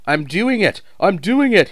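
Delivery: high, loud straining cheer; panting effort. A narrator's reading. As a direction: gasp it out halfway up the hill. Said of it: "he panted".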